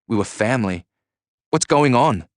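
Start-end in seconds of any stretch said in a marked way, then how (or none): 1.5-2.3 high, urgent raised question; narrated yell, pitched well up. A narrator's reading. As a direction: demand an answer over the noise. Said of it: "I yelled again".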